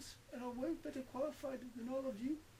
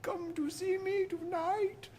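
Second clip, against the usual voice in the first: loud, slow drawn-out promo; promo announcer; 3 semitones higher, 8 dB louder than usual. Acted. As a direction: hype up tonight's show. Hammed-up promo outro.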